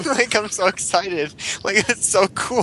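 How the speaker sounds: put-on high-pitched excited kid; little kid voice. Gushing over toy commercials like an eight-year-old, little kid voice. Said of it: "It's my little kid voice".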